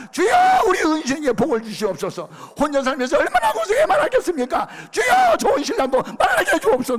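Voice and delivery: full-force high-pitched shout to the Lord; fervent shouted prayer. Retold or imitated. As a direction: cry out a blessing at the top of your lungs. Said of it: "눈 뜨고 기도를 했어".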